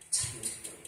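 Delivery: breathy whisper of confession; whispered repentance. Shown as a demonstration. Preacher whispers a confession to the congregation. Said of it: "회개해야 합니다".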